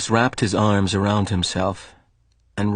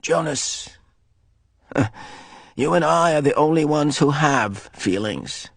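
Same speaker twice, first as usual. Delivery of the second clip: rueful laugh; 5 semitones higher than usual. Acted. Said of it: "rueful, anguished, empty laugh".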